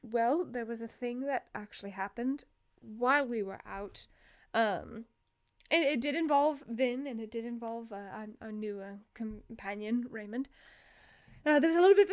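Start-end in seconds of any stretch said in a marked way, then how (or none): 0.0-10.5 halting explanation, trailing softer; acted hesitant, quiet hedging; stunned hesitation. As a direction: pick through an awkward confession. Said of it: "this stunned look as Talal's like".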